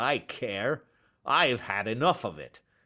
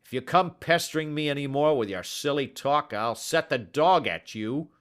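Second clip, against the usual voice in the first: furious, much higher and louder; angry shouting; 6 semitones higher, 5 dB louder than usual. Acted. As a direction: bellow at the pestering little man. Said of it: "he shouted".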